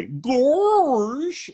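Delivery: loud, high cartoon goofball cry; drawn-out, dopey cartoon exclamation; Goofy. Shown as a demonstration. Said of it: "I'm ninety percent goofy".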